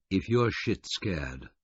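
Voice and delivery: very slow and distinct; slow, deliberate words to a frightened man; distinctly. Acted. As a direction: spell out each word slowly. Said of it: "I said distinctly".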